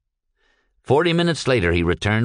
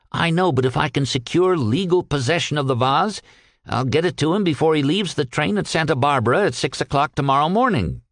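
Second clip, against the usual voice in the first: a little higher, earnest character voice; lightly voiced earnest Peck; 5 semitones higher than usual. Peck explaining his loyalty to the captain, lightly voiced and earnest. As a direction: loyal underling explaining himself.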